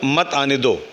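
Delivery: मत आने दो run together as one command, after a pause; मत joined to आने दो. Shown as a demonstration. Speaker explaining the forbidding reading, मत grouped with आने दो. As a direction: keep मत with आने दो, no break after मत. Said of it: "मतलब क्या? उसको मत आने दो".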